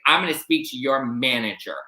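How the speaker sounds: mock a Karen demanding the manager; imitated demanding customer, emphatic; entitled Karen. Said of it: "Total Karen, right?".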